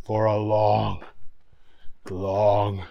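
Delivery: sinking to a low whisper; fading news reader. A narrator's reading. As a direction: let it die away to a whisper. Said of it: "said the newsman".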